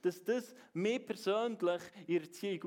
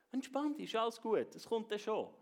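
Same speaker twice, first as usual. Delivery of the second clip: put-on Entspann dich lifted much higher, soothing the kids; soothing parent, pitched up; 5 semitones higher than usual. Parent to children at dawn, high soothing sing-song. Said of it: "haben wir immer wieder gesagt".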